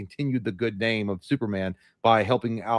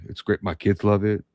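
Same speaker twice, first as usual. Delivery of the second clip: imitating Shaq; 3 semitones lower than usual. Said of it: "I can't do it".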